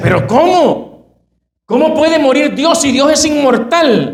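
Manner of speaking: surprised, rising pitch. Retelling a story, Martin Luther answers his wife's news; acting surprised. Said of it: "sorprendido, le dice".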